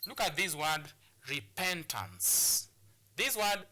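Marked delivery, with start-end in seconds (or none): 1.3-2.7 "repentance" slowly, stress on PEN; stress on second syllable. Shown as a demonstration. Teacher presenting a three-syllabic word, slow "repentance" stressed on PEN. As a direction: stretch "repentance" out, leaning on PEN. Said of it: "on the second syllable".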